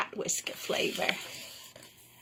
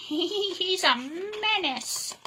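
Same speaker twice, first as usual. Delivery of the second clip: grumbling; 8 semitones higher, 4 dB quieter, slower than usual. Acted. Unhappy manager mutters.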